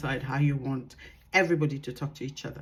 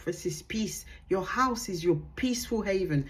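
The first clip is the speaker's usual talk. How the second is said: softened, measured demo of a peaceful voice; 4 dB quieter than usual. Shown as a demonstration. Coach showing parents how to speak at home, peaceful. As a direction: bring it down to a calm hush. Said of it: "a tone of voice where you go".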